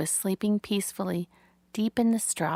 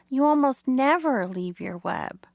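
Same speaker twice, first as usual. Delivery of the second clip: a touch higher, lightly voiced piglet; puzzled young pig; 5 semitones higher, 3 dB louder than usual. A narrator's reading. Wilbur wonders why Charlotte left her web, puzzled.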